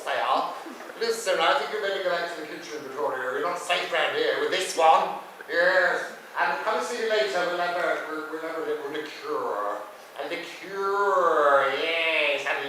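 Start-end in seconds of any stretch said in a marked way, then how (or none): none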